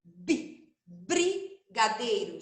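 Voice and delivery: brigadeiro bem lento, o br esticado; palavra silabada. Shown as a demonstration. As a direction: alongue cada sílaba de brigadeiro. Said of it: "Já tô falando o som do B". (brigadeiro bem devagar)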